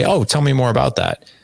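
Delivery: welcoming invite. Shown as a demonstration. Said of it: "welcoming, inviting voice tone".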